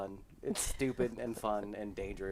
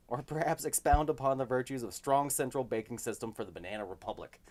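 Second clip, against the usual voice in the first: mock Hamilton. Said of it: "historically accurate Alexander Hamilton".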